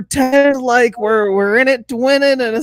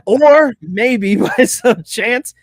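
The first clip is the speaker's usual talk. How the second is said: lightly voiced Kermit impression; a hint of a froggy Kermit. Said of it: "doing a Kermit the Frog voice there".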